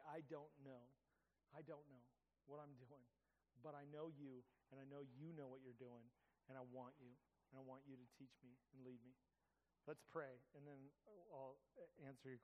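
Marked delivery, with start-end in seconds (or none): 0.1-9.2 much softer, humble plea; soft humble prayer. Pretend. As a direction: pray it quietly, with a bowed head.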